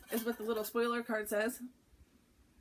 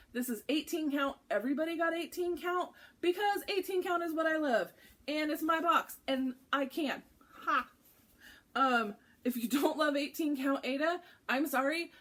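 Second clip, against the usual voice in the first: loud, higher, excited gushing; hyped up; 6 semitones higher, 4 dB louder than usual. Real, not acted. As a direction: gush too loud with real excitement. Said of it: "I feel like I'm screaming at you guys".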